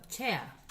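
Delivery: "chea" with an e gliding into schwa; English "ea" diphthong. Shown as a demonstration. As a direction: say "chea" with no R sounded. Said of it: "O A I R, como por ejemplo".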